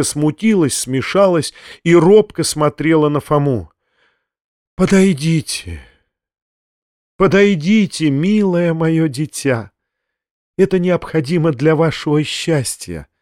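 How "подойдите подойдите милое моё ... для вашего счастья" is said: tender. Acted. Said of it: "ласково прибавил Фома".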